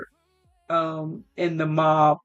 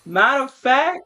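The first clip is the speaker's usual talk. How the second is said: raised, higher mock yell of a furious mother; mom yelling; 4 semitones higher, faster than usual. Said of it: "the mom needs to yell at her too".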